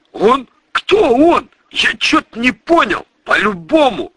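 чуть выше, озадаченно переспрашивает; лёгкий голос сбитого с толку громилы; озадаченный бандит. Acted. (слегка озвученный озадаченный бандит)

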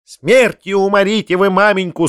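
high indignant cry; shouting woman. A narrator's reading. Companion scolds the uncle, a high indignant cry. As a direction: hurl it at the uncle. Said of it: "скричала она дяде".

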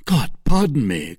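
a touch of outraged surprise; startled, half offended; mild indignant cry. Acted. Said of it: "cried Buckingham".

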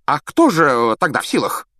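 high, flustered question; Fudge nervous. A narrator's reading. Fudge asking Malfoy, flustered high. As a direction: stammer it out.

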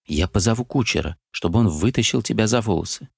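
ordinary delivery

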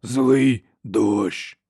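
slow rasping monster voice; harsh cracked giant voice. A narrator's reading. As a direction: drag out each word like a simple-minded brute. Giant speaks.

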